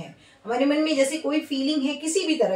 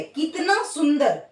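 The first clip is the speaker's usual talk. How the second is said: admiring; slower than usual. Shown as a demonstration. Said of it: "कितना सुंदर बोलने के भाव में".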